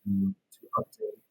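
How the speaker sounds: glitchy robotic call audio; choppy garbled connection, sounds underwater; breaking up, underwater. Real, not acted. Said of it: "your audio is breaking up again, or you sound underwater".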